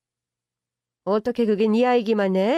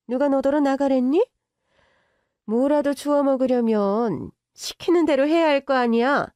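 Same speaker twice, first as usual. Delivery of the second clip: a bit higher and louder, ordering; bossy rich mother; 4 semitones higher, 4 dB louder than usual. Acted. Mother-in-law ordering the girlfriend to obey, bossy. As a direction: boss her like a servant.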